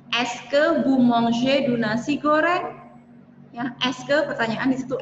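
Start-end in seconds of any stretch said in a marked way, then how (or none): 0.1-2.7 slow example sentence. Shown as a demonstration. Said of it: "misalnya saya mempunyai kalimat".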